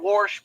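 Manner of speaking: "warsh" with an r slipped in before the sh. Shown as a demonstration. Streamer showing how the word sounds, "warsh". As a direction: say "warsh", r-coloured. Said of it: "it's kinda like they're saying".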